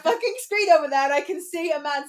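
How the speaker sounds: high, insistent reenacted alarm; retold urgency. Host retelling convincing partner of intruder, urgent mock alarm.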